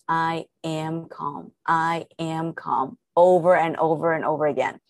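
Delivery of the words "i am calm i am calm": slow, measured affirmation; unhurried self-soothing words; calm mantra. Shown as a demonstration. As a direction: repeat it slowly and evenly to yourself. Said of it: "in the calmest voice you can muster".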